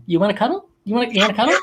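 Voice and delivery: lightly acted pleading invitation; coaxing. Dad asking his little son for a cuddle, coaxing.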